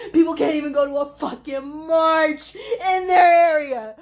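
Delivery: half-laughing, half-crying yell; laughing shout. Real, not acted. Venting at people who won't march, a laughing, cracking shout. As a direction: blurt it out, laughing in disbelief.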